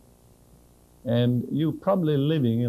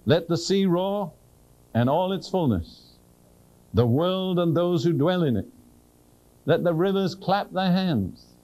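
read with real faith; 4 semitones higher than usual. Shown as a demonstration. Preacher reading the psalm to his congregation with real faith. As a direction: proclaim every word as if it's happening. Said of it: "I'm gonna read this with real faith".

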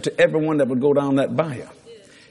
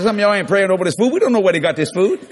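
quick, raised, higher voice to a crowd; retold loud announcement; 4 semitones higher, 5 dB louder than usual. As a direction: call out comically to a whole room. Retold address to whole restaurant.

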